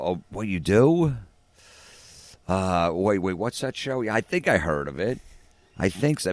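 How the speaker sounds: high, drawn-out fake puzzlement; passive-aggressive ignorance. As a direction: pretend you barely recognise it, mockingly. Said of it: "It's like a passive-aggressive thing".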